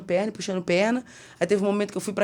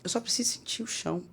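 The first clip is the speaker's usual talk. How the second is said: whispered plea, retold; súplica sussurrada; 3 semitones higher, 10 dB quieter than usual. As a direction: say it under your breath, barely voiced. Reconta pedido para ficar de pé. (sussurro de quem pede pouco)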